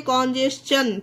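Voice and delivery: कॉन्जेशन with the T said as "ch", "jes-chun"; ch sound for T. Shown as a demonstration. Teacher showing how it is read, कॉन्जेशन with "ch". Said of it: "चा पढ़ा गया है".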